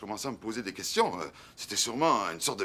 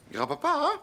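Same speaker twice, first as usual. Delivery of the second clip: put-on child asking grandpa; 4 semitones lower than usual. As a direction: beg grandpa sweetly, like a small kid. Child asks grandpa for plane. (enfant qui supplie gentiment)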